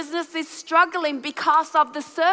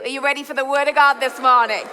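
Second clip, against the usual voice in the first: faster push to get the crowd answering; rallying call; faster than usual. Real, not acted. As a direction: ask again with more energy, quicker. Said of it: "That's three of you".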